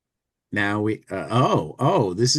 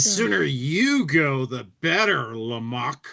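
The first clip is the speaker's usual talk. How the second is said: impatient, unfriendly. Acted. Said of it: "being impatient and unfriendly".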